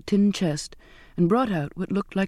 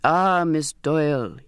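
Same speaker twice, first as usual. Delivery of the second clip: glad cry; slower than usual. Acted. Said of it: "he cried".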